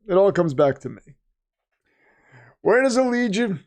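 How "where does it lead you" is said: high, mock-rhetorical question; mock-preacher setup question.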